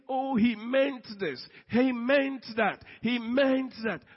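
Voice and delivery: high, loud, drawn-out accusations; agitated accusation. Acted. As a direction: hammer out each suspicion emphatically. Acting out suspicious inner thoughts.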